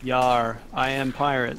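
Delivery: loud mock pirate; hammed-up pirate boast. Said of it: "Get a load of this".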